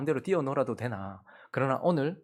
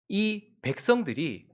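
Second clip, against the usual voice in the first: ordinary talk, nothing marked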